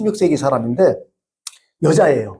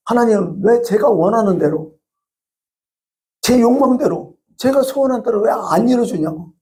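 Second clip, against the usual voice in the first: higher, whining complaint to God; resentful plea; 5 semitones higher than usual. Retold or imitated. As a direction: sulk at God for unanswered wishes. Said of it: "이런 원망도 하죠". (원망하듯 높은 목소리로)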